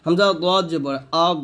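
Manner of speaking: "আগ" held on a heavy dad without any bounce; thick "দদ", "আগ" ending unreleased; no qalqalah. Shown as a demonstration. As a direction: close "আগ" smoothly, no echo after the final consonant. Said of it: "এখানে দদ কিন্তু কলকলা হবে না".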